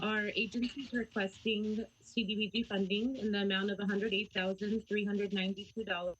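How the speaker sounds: dropping, broken call audio; glitching audio. Real, not acted. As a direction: voice cutting out on the line. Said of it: "We can't hear you. You cut off".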